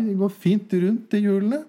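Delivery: worked-up mechanic protesting; excited mechanic. Acted. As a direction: argue the point with rising pitch. Mechanic arguing in joke.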